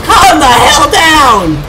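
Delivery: high, drawn-out yell; exasperated yell. Real, not acted. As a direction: yell at them, stretching the words. Yelling at attacking game enemies.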